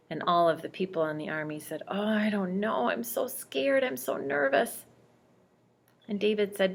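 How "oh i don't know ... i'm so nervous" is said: scared soldiers. Acted. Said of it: "scared and nervous and shaking".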